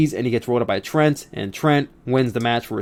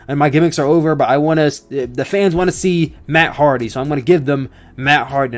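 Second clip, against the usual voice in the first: imitating Matt Hardy. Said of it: "why am I doing his accent?".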